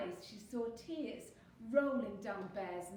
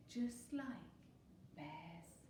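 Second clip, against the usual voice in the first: slowed, broken up, fading away; sleepy hush; 4 semitones lower, 7 dB quieter, much slower than usual. A narrator's reading. Fox closing the bedtime story, sleepy hush. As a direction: let the last word drift off softly. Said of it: "fast asleep".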